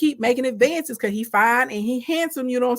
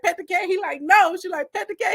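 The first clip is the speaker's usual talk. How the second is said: each ask pitched higher; rising insistence; 7 semitones higher than usual. Retold or imitated. Wife pestering Joseph, climbing higher. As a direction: push harder every time.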